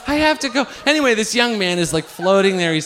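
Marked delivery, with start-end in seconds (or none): 0.1-0.6 high-pitched but quicker comic plea; acted urge to escape; desperate insistence. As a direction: insist on leaving, pitched high without stretching it. Repeats desperation to leave, less drawn-out.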